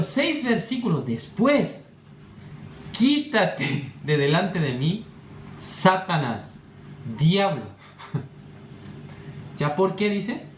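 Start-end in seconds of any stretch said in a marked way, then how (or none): 2.9-7.6 very slow, drawn-out command with pauses; mildly dramatic rebuke, each phrase held; stern rebuke. Acted. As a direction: reprimand the disciple slowly and firmly. Acting out Jesus rebuking Peter.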